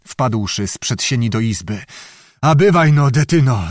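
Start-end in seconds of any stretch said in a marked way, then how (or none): 2.4-3.7 breathless call. Acted. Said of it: "zawołał zdyszany".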